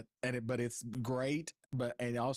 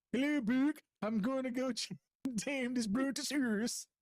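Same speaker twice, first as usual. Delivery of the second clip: Viking voice; 13 semitones higher than usual. Pretend. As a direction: ham up a Viking warrior. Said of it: "you have to talk in a Viking voice".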